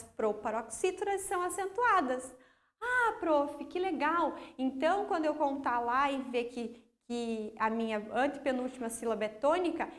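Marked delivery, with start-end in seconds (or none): 2.8-9.9 imagined enthusiastic pupil. Pretend. Pupil checking the rule with teacher, imagined enthusiastic pupil. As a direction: play a pupil delighted by an easy rule.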